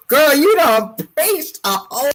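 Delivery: excited praise. Real, not acted. Praising the mini sermon.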